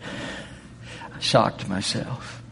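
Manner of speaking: very slow, breathy near-whisper; hushed confession. Real, not acted. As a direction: confess it almost under your breath. Confessing own surprise.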